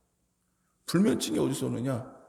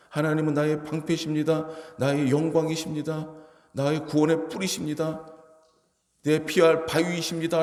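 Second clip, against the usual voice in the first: higher, ringing declaration of faith; bold proclamation; 3 semitones higher than usual. Shown as a demonstration. Preacher proclaiming God as shield before the church, ringing and bold. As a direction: proclaim it boldly to the congregation. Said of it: "라고 선포하면".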